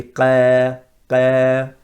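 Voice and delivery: Qa said thin, sound falling; light wrong Qa. Shown as a demonstration. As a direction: Qa without heaviness. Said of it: "If it goes downwards".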